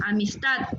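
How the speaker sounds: "amistad" with the final d sounded; careful teacher's "amistad"; correct amistad. Shown as a demonstration. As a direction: close "amistad" on a clear d. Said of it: "con D al final".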